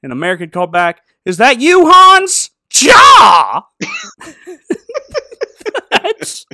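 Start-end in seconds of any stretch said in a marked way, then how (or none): 1.2-3.6 high, loud shouted punchline; loud high comic shout. Acted. Punchline shouted across trenches. 3.8-6.5 real laughter breaking through; laughing. Real, not acted.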